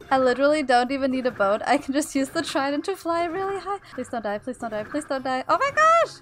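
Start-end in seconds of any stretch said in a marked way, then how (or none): 3.9-5.4 softer, quick anxious begging; nervous pleading. Real, not acted. Flying on trident, pleading quietly. 5.5-6.1 much higher, louder burst of delight; thrilled shriek. Real, not acted. Suddenly flying high.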